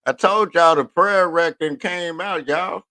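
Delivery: high, loud exclaim about the prayer rag; excited outburst. Real, not acted. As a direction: burst out, raising the pitch and volume. Excited rant about the heat.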